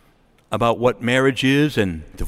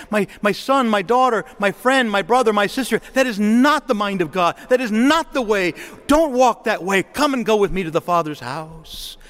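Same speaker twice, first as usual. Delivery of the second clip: higher-pitched, urgent appeal; impassioned plea, easing at the end; earnest pleading; 5 semitones higher than usual. Acted. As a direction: plead with a loved one to turn back. Imagined plea to erring family.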